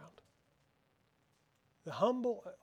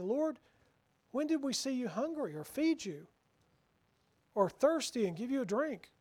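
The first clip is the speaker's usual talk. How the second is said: humble bewildered question; 5 semitones higher than usual. Retold or imitated. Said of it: "you gotta listen to the way this is worded".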